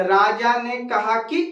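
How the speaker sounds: राजा ने कहा कि with a short, quick कि. Shown as a demonstration. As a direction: say कि fast and clipped. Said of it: "तो जल्दी से अगर बोला जाए".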